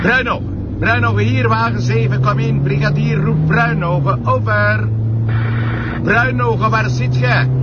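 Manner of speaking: radio call. Acted. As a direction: hail the other car over the radio, clipped and loud. (luide, hogere oproep via de politieradio)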